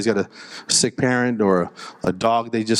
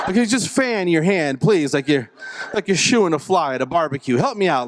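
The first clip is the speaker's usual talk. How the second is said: higher-pitched comic begging; pleading; 4 semitones higher than usual. Acted. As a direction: beg for a small favour, pitched up. Begs nurse to fan him.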